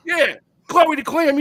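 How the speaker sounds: high, loud, drawn-out admission; insistent confirmation. Retold or imitated. Heartbroken friend confirms his mistress, high and drawn-out mock admission. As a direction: own up loudly, stretching the name out.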